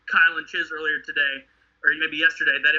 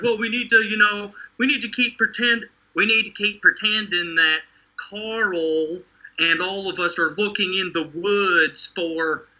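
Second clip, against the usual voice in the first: lightly put-on wandering Southern drawl, Rick; mock Rick in a slipping Southern accent; inconsistent Southern accent. Friend mocking Rick in a wobbly Southern accent. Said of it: "I did the accent like that".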